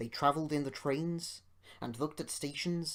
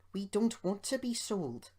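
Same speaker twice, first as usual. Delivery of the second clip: miserable; 6 semitones higher than usual. A narrator's reading. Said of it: "said Peter Sam miserably".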